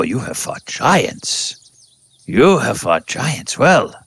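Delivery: put-on a beaten old hunter who stays dignified and turns hospitable; defeated old tabaxi hunter. DM voices the bound tabaxi hunter inviting the party to his den, grand old hunter voice. Tabaxi impressed, asks for help.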